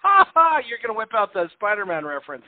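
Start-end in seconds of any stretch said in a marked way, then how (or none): 0.0-0.6 sudden loud burst of laughter; big laugh. Real, not acted. Host makes Spider-Man joke.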